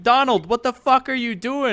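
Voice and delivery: high, loud acted disbelief; alarmed outburst. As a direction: demand an explanation, voice shooting up. Guys inside confront door kicker.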